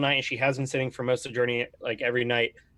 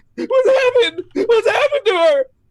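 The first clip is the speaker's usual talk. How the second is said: panicked cry, very high, shrill and loud; 9 dB louder than usual. Voicing a man who collapses to his knees in a cabin, panicking. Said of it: "He's like panicking".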